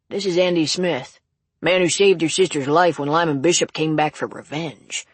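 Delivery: a hint of old local clerk; lightly voiced old cashier. Cashier introducing her sister's rescuer, lightly voiced old man.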